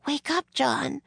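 put-on high girl's voice; young girl rousing someone. A narrator's reading. Annie to the boy in a nightmare, high and urging.

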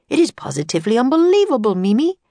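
a father lightly voiced, marvelling; lightly voiced amazed father. A narrator's reading. Father marvelling to his daughter at the invention, lightly voiced amazement.

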